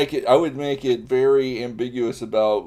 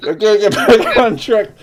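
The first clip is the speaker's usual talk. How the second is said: laughing; 6 semitones higher, 9 dB louder than usual. Real, not acted. Repeats line laughing.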